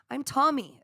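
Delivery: put-on Scottish accent. Psychic relays a spirit introducing himself, in a tentative Scottish accent. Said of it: "I think it was a Scottish accent".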